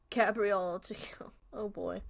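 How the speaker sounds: slow whispered aside; under-the-breath remark; hushed aside. Real, not acted. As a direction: whisper it slowly to yourself. Muttered aside on game reference.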